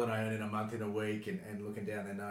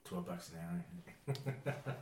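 drawn-out answer; 11 semitones higher, much slower than usual. Pretend. Mock answer to money question.

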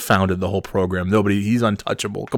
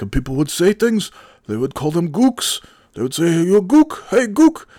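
professor getting worked up; 9 semitones higher than usual. Retold or imitated. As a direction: climb into a mock yell. Acting out professor's heated lecture.

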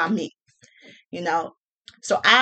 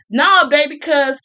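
put-on louder, higher patronizing no baby; condescending baby; 4 semitones higher, 6 dB louder than usual. Mocking a date who condescendingly calls her baby. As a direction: scold her like a child. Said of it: "condescendingly calling me honey".

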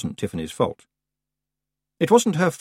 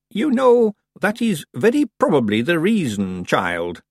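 calm; 8 semitones higher, 3 dB louder than usual. A narrator's reading. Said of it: "said Miss Treason calmly".

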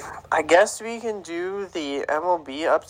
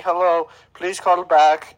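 slow mock Indian caller, slightly louder; put-on Indian accent, drawn out; imitated Indian accent; 3 semitones higher, 3 dB louder, slower than usual. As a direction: imitate an Indian man on a voicemail. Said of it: "some Indian guy".

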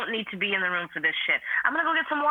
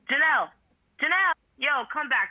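yelling across the room. Acted. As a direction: call a friend from another room. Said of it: "so I don't have to yell across the house".

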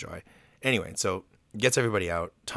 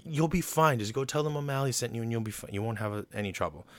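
breezy reassurance; 4 semitones higher than usual. Retold or imitated. Thomas brushes off the mouse's worry.

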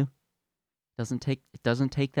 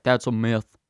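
put-on higher, louder, childish ranting denier; mock denier tantrum; 6 semitones higher, 5 dB louder than usual. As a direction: plug your ears and yell like a spoiled kid. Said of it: "they're like".

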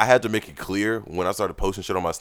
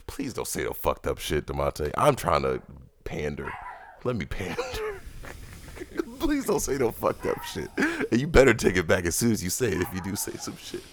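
heavy nose breathing. Real, not acted. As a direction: breathe heavily through the nose. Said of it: "stop breathing into the mic".

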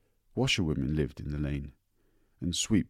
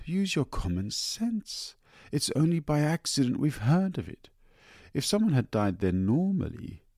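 amused mother; 4 semitones higher than usual. Acted. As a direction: humour the child, lightly amused. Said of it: "she seemed amused".

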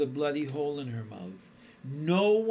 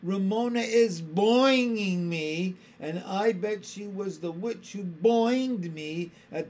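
near tears; 5 semitones higher, 6 dB louder than usual. A narrator's reading. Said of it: "cried Susan on the verge of tears".

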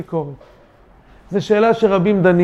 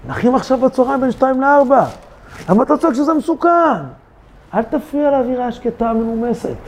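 a hint of a fast, annoyed neighbour; faster than usual. Neighbour scolding the one who warns, lightly annoyed. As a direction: rattle it off, irritated.

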